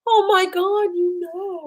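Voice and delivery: high, bright squeal of surprise; mock surprise. To her cohost, squealing in mock surprise. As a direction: gasp it out like you've been caught. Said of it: "I was like".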